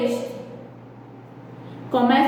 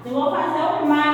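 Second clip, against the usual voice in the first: quick aside; much faster than usual. Shown as a demonstration. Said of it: "Como é que eu faço ma?".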